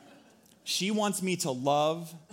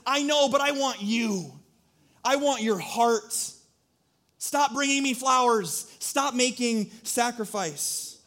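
gentle voice of God; 5 semitones higher than usual. Retold or imitated. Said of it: "And God says".

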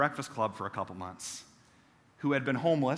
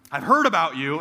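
louder, blunt and knowing; stranger's knowing line; 6 dB louder than usual. Retold or imitated. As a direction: let him say it with weight. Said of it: "he said".

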